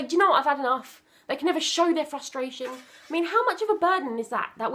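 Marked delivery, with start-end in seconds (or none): 0.0-1.0 fed-up outburst. Retold or imitated. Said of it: "they can never just say".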